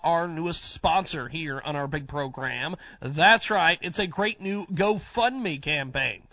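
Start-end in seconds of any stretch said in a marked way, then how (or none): 3.0-3.8 hyped host. Acted.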